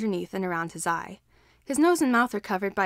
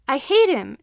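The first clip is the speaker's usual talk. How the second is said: put-on child's furious cry, louder; vehement; 5 semitones higher, 8 dB louder than usual. A narrator's reading. Child repeats his hatred to teacher, furious. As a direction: spit it out through tears. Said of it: "repeats much more vehemently".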